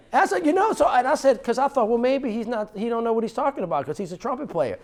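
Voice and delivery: very high and loud, still laughing off the idea; worked-up disbelief. Retold or imitated. Mayor recalling dismissing his friend's idea, high loud scoff. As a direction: brush him off as just a trumpet player. Retelling own dismissive thought.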